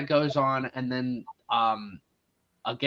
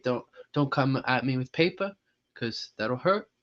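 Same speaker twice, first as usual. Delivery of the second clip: Korg impression; 4 dB quieter than usual. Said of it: "Taika Waititi voices Korg".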